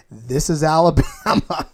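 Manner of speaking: slow, put-on Southern Alabama drawl; Alabama accent. Host imitating guest's Alabama accent, slow and drawn out. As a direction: mimic a thick Alabama accent, slowly. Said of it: "deep, thick accent".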